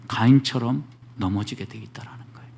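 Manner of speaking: hushed, breathy warning whisper; whispered caution to the congregation. Real, not acted.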